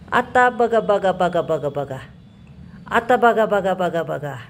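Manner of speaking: playful chant that falls away to a murmur; singsong fading. Real, not acted. Playing with baby, singsong repeats.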